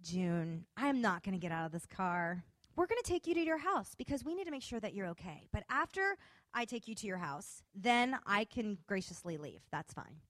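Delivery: lightly put-on voice of authority; authoritative voice. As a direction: calmly lay down the law. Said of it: "put on my little Holly authoritative voice".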